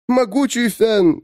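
high, slow, solemn address; solemn greeting. Acted. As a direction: call him slowly, with reverence. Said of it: "сказала женщина". (торжественное, медленное обращение)

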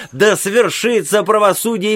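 high ringing proclamation; high cry. A narrator's reading. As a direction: proclaim it like a prophet. Old man cries out in court.

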